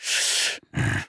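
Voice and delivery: heavy unvoiced huff; cranky sigh. Bitten man fuming at the owner, cranky sigh. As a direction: let out an exasperated breath. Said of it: "very crank, I'm cranky".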